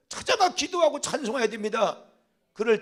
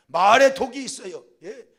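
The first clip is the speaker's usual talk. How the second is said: ordinary talk, nothing marked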